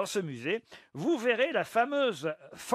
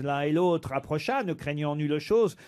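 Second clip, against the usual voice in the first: measured poetry reading, mildly dramatic; reciting a fable. Acted. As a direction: recite the verse like a storyteller.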